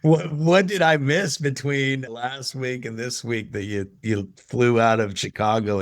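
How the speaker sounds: can't believe what she just heard, slowing at the end; incredulous surprise. Retold or imitated. Stunned reaction to surprising news.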